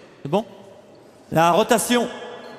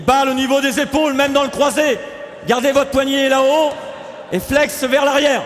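raised, projected technical correction; calling out instructions; 5 semitones higher than usual. Real, not acted. Coach correcting players' wrist position, calling out. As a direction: call the correction higher over the drill.

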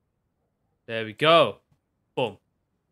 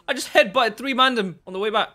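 laughing; 6 semitones higher, 8 dB louder than usual. Real, not acted. Laughing about the fight.

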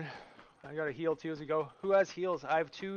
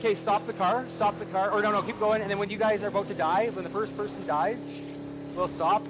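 loud, raised-pitch orders; urgent callout; 4 semitones higher, 5 dB louder than usual. Real, not acted. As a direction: call out urgent instructions to the team. Urgent orders to teammates in car.

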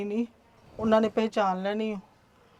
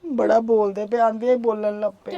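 crying out; 5 dB louder than usual. Acted. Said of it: "ਤੁਸੀਂ ਰੋਈ ਕਿਉਂ ਜਾਂਦੇ ਹੋ".

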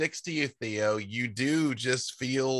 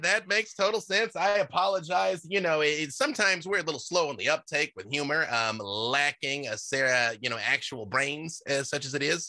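awakened shrub; 3 semitones higher than usual. Acted. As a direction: apologize cheerfully as the shrub. GM voices the shrub again.

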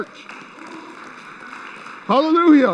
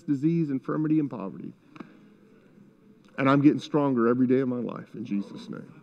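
softer, lower blessing spoken before taking pills; quiet prayer over medicine; 3 semitones lower, 5 dB quieter than usual. Shown as a demonstration. Pastor showing how to pray over medication, soft and low. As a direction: murmur thanks over the medication. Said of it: "you say".

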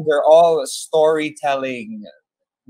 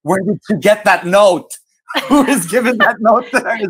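laughing retold amazement; 4 semitones higher than usual. Quotes amazed reaction while laughing.

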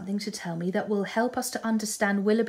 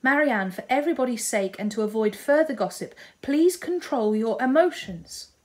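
firm appeal; 3 semitones higher, 4 dB louder than usual. Acted. Eleanor urges sister to composure.

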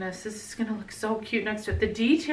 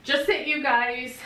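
real welling-up, rising high with a laugh; about to cry; 4 semitones higher than usual. Real, not acted. Vlogger thanking viewers for their kindness, close to tears. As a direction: laugh through the urge to cry, pitch climbing. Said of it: "I'm gonna start crying".

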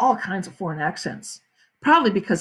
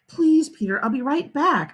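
higher, pleading reassurance; coaxing mother; 5 semitones higher than usual. Acted. Mother asks Peter to help, higher coaxing plea. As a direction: coax him, pitched a bit up. Mother coaxes reluctant son.

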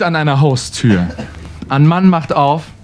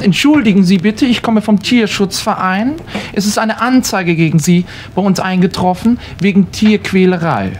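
polite official; 5 semitones higher than usual. Acted. Animal welfare man at the door.

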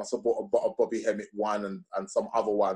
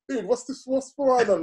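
much higher, stunned and stammering; baffled disbelief; 11 semitones higher than usual. Retold or imitated. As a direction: reel back in confused surprise. Retelling reaction to Doctor Ben claims.

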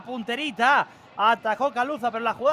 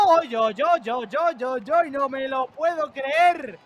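disbelief. Real, not acted. Missed chance reaction.

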